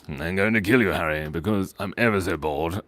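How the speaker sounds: lightly voiced bored villain; Voldemort. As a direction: threaten as if bored stiff. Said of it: "maybe Voldemort was just bored".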